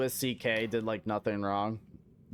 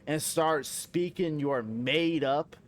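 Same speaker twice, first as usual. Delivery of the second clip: mock outraged rant; 3 semitones higher than usual. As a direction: lay into them with pretend indignation, dragging the insults out. Mock tirade at a British player.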